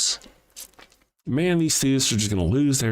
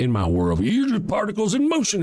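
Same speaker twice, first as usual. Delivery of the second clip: mock Christian apologist; 10 semitones higher than usual. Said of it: "When you say that".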